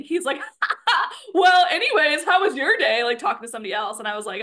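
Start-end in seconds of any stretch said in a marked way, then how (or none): 0.6-3.0 high, loud mock laugh into the line; laugh, then talk through it, pitched up; imitated laughing bystander. Bystander in line changing the subject, laughing. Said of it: "one guy starts laughing".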